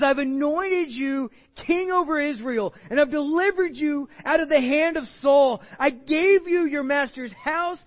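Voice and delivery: high, loud impassioned pleading; preaching at full force. Acted.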